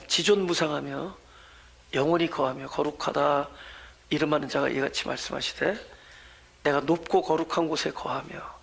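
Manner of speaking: low, measured Bible reading; solemn scripture recitation. Acted. Reads the scripture verse aloud.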